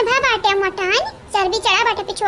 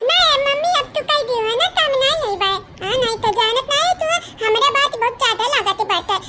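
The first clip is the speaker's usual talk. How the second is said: put-on sulky child. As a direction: refuse like a pouting kid. Child refuses mother, sulking.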